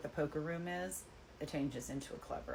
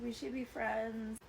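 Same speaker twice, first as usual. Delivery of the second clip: high-pitched imitation of tipsy friendliness; tipsy sweet girl; 7 semitones higher than usual. Tipsy customer to her bartender, high and gushingly friendly.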